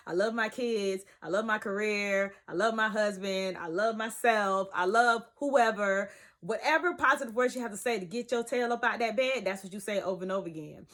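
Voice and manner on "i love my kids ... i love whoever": slowing down, each line deliberate; slow affirmations. Shown as a demonstration. Showing viewers sample affirmations, slow and sincere. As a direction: say it like you mean each word. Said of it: "whatever words you wanna use".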